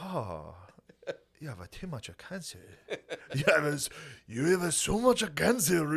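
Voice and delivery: mock Asian accent. Comedian at a hospital bedside, mock Asian accent.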